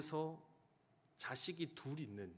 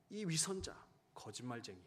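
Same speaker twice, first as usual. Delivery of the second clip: angry accusation. Retold or imitated. Wife scolding husband coming home late, angry accusation. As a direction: scold him as a liar and hypocrite. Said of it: "그렇게 화를 내며".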